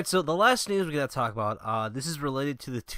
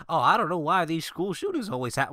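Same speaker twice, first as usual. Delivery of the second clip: put-on Southern accent; 2 semitones higher than usual. Imitating a guy puzzled by shootings, light Southern accent. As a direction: voice him with a hint of a Southern accent. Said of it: "I gave him a southern accent".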